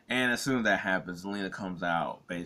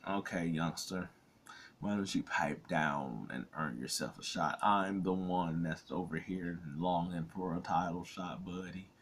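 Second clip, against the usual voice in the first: put-on old person voice; 4 dB quieter than usual. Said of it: "I try to do, like, an old person voice".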